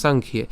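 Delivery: "সাংখ্যে" as one unbroken word; joined up. Shown as a demonstration. Teacher settling on the form to use, "সাংখ্যে" run together. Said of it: "তাই আমরা একসাথে উচ্চারণ করবো".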